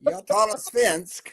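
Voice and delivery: slow careful Swedish phrase "Jag talar svensk"; speaking Swedish. Shown as a demonstration. Showing off Swedish to the scout podcast, slow. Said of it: "my best friend in Sweden".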